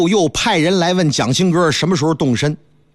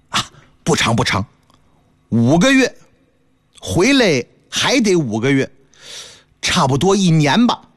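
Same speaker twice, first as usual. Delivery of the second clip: husband hedging; 2 semitones lower than usual. Acted. Husband tells wife the trip takes a year, sheepish. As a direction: play the year down.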